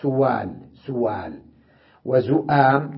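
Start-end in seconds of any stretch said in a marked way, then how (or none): 0.0-1.3 سوال said as suwaal; no glottal stop in سوال; softened hamza. Shown as a demonstration. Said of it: "يقرؤونها هكذا". (سوال بتسهيل الهمزة)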